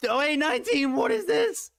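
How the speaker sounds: astonished. Real, not acted. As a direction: shout in shocked delight. Price jumps suddenly.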